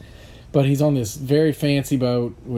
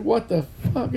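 mock surprise; 9 semitones higher than usual. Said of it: "he's like".

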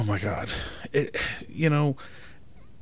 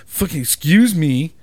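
a snapped "Fucking excuse me", much louder; rude excuse me; 5 semitones higher, 9 dB louder than usual. Shown as a demonstration. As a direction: bark it like a dick would. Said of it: "you're a dick anyway".

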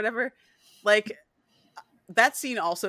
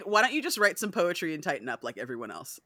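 impatient Lestat. Retold or imitated. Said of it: "Lestat's like".

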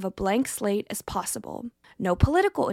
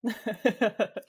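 nervous giggle. Real, not acted. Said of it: "like, the nervous giggle".

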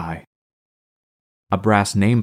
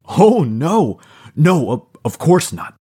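high, laughing denial, louder; 8 semitones higher, 5 dB louder than usual. A narrator's reading. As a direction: laugh it off while denying. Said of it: "Max laughed".

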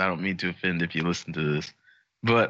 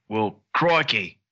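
mock Aussie crikey; slower than usual. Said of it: "really offensive Aussie accent".

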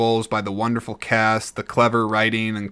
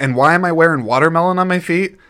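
indignant question; 6 semitones higher, 6 dB louder, faster than usual. Retold or imitated. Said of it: "he says".

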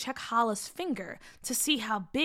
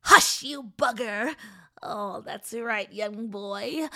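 witch voice; 4 dB louder than usual. Acted. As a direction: tempt the boy with sly delight. Witch hushes girl, tempts boy.

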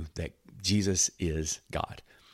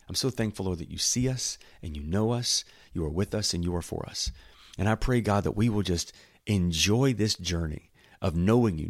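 prayer. Real, not acted. Preacher prays to the Father for the congregation, gently reverent. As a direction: settle into sincere thanks, easing down to Amen.

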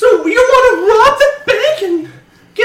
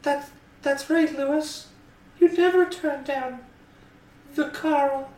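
spooky, hypnotised repeating; slow and creepy; 8 semitones lower, 13 dB quieter than usual. Acted. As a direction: drag it out slowly, creepily, and low. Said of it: "say it slowly and look at me creepily".

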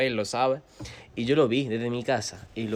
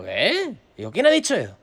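high, retold startled question; indignant surprise; 9 semitones higher, 6 dB louder than usual. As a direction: pitch it up in disbelief. Shocked at embarrassing rumour.

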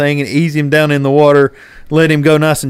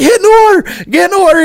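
high, louder urgent commands; shouted orders; 4 dB louder, faster than usual. Retold or imitated. Angler shouting at his buddy to get in, high loud yell. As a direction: yell it at him, fish is thrashing. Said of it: "And I'm like".

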